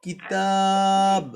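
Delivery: কিতাব with the তা stretched three alif long, very slow; slow Quranic drawl of কিতাব, long middle vowel. Shown as a demonstration. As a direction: pull the vowel in কিতাব out long, then stop on ব. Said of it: "তিন আলিফ টেনে পড়বেন".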